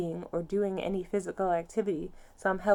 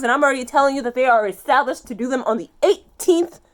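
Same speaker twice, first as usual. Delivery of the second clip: much louder and higher, exasperated yelling; furious shout; 5 semitones higher, 12 dB louder than usual. Real, not acted. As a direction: make them finally hear you. Shouting about being misgendered.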